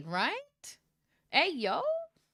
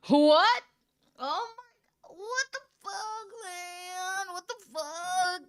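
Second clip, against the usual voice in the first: much higher, stunned disbelief; shocked; 9 semitones higher, 7 dB louder, slower than usual. Real, not acted. Reader learns she has a boyfriend, shocked high cry.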